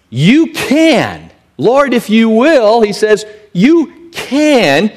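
pleading, pitched well up; leper's plea. Acted. A leper on his face begging Jesus, pleading. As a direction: beg the Lord to heal you. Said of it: "He comes and he says next".

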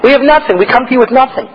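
high, mournful plea to God; pleading prayer. Pretend. Supplicant telling God he has nothing, pleading high. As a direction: beg with empty hands.

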